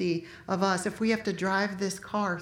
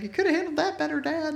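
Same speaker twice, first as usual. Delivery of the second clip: higher, lightly voiced dry son; a hint of a son chiding his father; son's mild rebuke; 6 semitones higher than usual. Son Jesse gently scolding his dad, higher and dry. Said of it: "Jesse's like".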